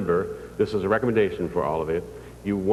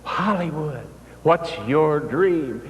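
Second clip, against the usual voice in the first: retold yell; 6 semitones higher, much slower than usual. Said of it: "and he yelled".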